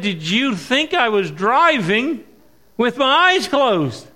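retold incredulous reply to the deacon. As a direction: ask it in mock disbelief.

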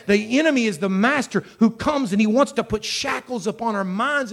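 driving, emphatic sermon; forceful preaching. Real, not acted. Preacher warning the church about the enemy, forceful preaching. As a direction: hammer the warning home without letup.

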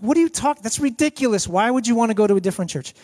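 high, incredulous mock scolding; exasperated wife. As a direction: dismiss the idea as ridiculous. Wife dismisses husband's silly suggestion.

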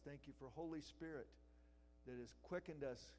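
steady, earnest prayer voice; closing prayer. Acted. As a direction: lead the congregation in prayer.

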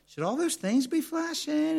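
very high-pitched imitation of worried passengers; mock alarmed question. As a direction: squeal the question as a nervous passenger. Voices passengers noticing warning lights.

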